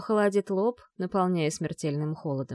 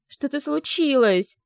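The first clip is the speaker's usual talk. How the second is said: slow, higher, louder alarm; panicked cry; 7 semitones higher, 6 dB louder, slower than usual. A narrator's reading. Vi sure something happened to Yar, panicked. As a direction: let the panic break through. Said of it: "С нарастающей паникой".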